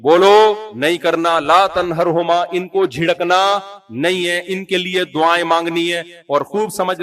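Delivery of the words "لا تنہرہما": slow recited verse; quranic recitation. Shown as a demonstration. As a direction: intone it like scripture. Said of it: "اللہ نے فرمایا". (تلاوت کے انداز میں)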